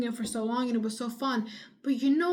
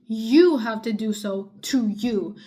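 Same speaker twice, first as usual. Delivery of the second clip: loud insistence; 7 dB louder, slower than usual. Real, not acted. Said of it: "Sorry for screaming a little".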